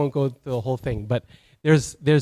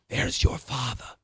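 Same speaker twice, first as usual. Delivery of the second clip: softer cartoon-monkey voice; lightly accented old-story character; Rafiki's accent; 2 semitones lower, 7 dB quieter than usual. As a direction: reveal it softly, in character. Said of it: "in his wonderful accent".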